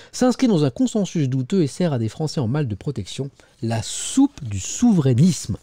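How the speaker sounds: emphatic newspaper reading; editorial read-aloud. Acted. Presenter reading a scathing editorial to viewers, emphatic read-aloud. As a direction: read it out in measured phrases.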